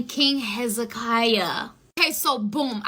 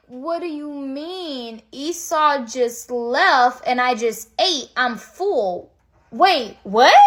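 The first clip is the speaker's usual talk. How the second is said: Isaac, baffled; much slower than usual. Acted. Father realising the wrong son ate with him, baffled. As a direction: drag the words out as it dawns on you.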